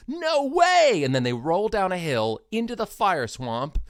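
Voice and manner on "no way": far higher, louder squeal; delighted disbelief. Retold or imitated. Buttercup learning it's her love, high excited squeal. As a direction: squeal with joy at the news. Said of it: "she goes".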